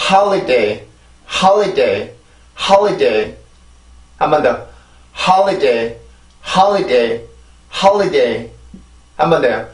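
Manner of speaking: holiday in three separate beats, strongest on ho; pronunciation drill. Shown as a demonstration. Teacher repeating the word for learners, careful stressed syllables. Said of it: "이렇게 해서 이 단어가 발음이 되면".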